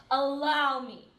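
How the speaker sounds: "Allow" punched, quoting him pointedly; stress on Allow. Retold or imitated. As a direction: lean hard on "Allow", imitating him. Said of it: "That's how he said it".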